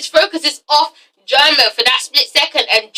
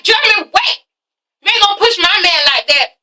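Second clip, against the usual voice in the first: acted protest; 6 semitones higher than usual. Voicing Asha calling after German.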